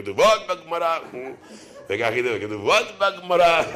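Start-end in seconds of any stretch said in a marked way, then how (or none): 0.0-1.0 mock preacher chant through a laugh; laughing mock drone. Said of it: "כולם נרדמים". 2.4-3.6 slow mock preacher chant; mock drone. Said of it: "כולם נרדמים".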